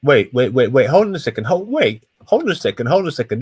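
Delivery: high, loud, urgent wait wait; excited interruption. Real, not acted. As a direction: jump in to stop him mid-argument. Cuts in on the other man.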